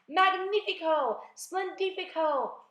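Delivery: high, drawn-out exclamations; exultant cry. A narrator's reading. Aunt cheers the giant peach, exultant cry. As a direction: sing out each word slowly with relish. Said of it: "Aunt Sponge cried out".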